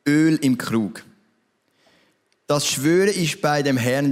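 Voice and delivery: a desperate widow pleading, slowly; slow, grave widow. Acted. Widow telling Elijah of her last flour, slow and grave.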